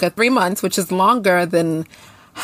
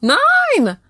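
higher and louder stunned "Nine."; shocked; 4 dB louder than usual. Real, not acted. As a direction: blurt it out in disbelief. Stunned at nine months celibacy.

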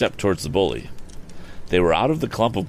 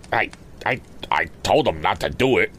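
nervous stammer; 2 semitones higher than usual. Acted. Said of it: "exclaimed Sam".

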